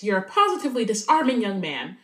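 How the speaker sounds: lightly put-on posh English accent; a hint of a posh English accent, slightly grand. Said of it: "says in a posh voice".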